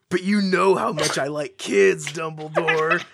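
reading through giggles; can't keep a straight face; laughing while reading. Acted. Reading werewolf line, laughing.

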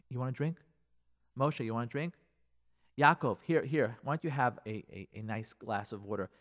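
soft, low coaxing; quietly solicitous; gentle offer. Acted. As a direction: gently offer it to a loved one. Husband gently offered a drink.

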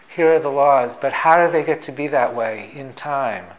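a hammed-up Brooklyn accent; Feynman Brooklyn accent. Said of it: "I wish I could do a Feynman Brooklyn accent ... I'll try to fake it".

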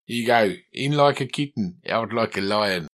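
put-on South African accent. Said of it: "I want to put on a South African voice".

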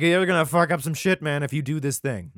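high, loud bro voice shouting the warning; hammed-up shouting paraphrase; mock loud warning. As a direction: yell it like a worked-up buddy. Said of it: "so he's like".

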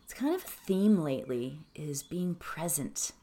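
calm, measured meditation voice; unhurried phrases with long pauses; settled, quiet teaching of a mantra; guided meditation. Acted.

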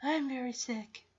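flat, quiet, deadpan claim; matter of fact. Retold or imitated. Veda telling the receptionist, deadpan and quiet. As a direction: say it like reading a list. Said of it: "Veda says it so matter of fact".

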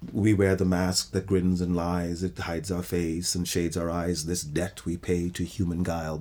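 poem recital. Shown as a demonstration. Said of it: "lyrical poems".

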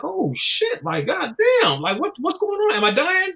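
high, alarmed mock panic; mock panic from the niacin flush, voiced high; panicked. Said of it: "you're like".

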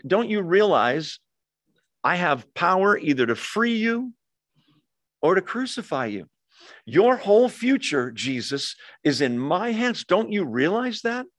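a governor boasting his power over a prisoner; Pilate threatening. Retold or imitated. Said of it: "He's saying".

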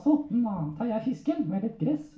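high-pitched ventriloquist puppet voice; puppet storyteller. Acted. Puppet telling handler about an aquarium, high comic voice. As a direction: speak well above your own pitch as a puppet.

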